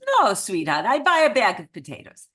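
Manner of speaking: loud, put-on Eastern European accent; emphatic mock Eastern European accent; bad Eastern European accent. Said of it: "I do the absolute worst Eastern European accent".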